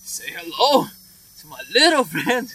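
slow, punchy Scarface impression; Al Pacino. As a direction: put on a movie gangster's voice, dragging it out. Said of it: "Al Pacino".

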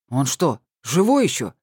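grimacing disgust. Acted. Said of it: "скривилась Тамарка".

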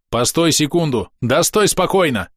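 urgent plea to hold still; exasperated order. Acted. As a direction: tell someone off for fidgeting.

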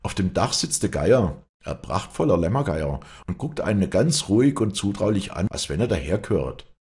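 a touch of eager excitement; mildly excited report. Acted. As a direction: brother describing the vulture, mildly excited. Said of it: "sagte er aufgeregt".

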